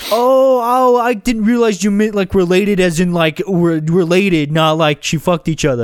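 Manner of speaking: high start, wandering Boston voice; bad Boston accent. Host attempting the character again, muddled Boston accent. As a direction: slip from New York into mock Boston. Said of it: "That sounds like Boston now".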